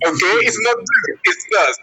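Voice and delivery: "does" said as /dʌz/, rising high in correction; correcting pronunciation. Shown as a demonstration. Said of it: "The pronunciation is different".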